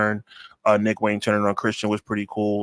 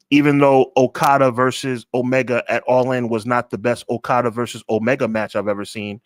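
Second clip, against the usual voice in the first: slower, deliberate delivery, spelled out; real slow. Shown as a demonstration. Reviewer restating his point so it makes sense, real slow. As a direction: say it slowly so it sinks in. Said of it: "I'm gonna say this real slow so it makes the most sense".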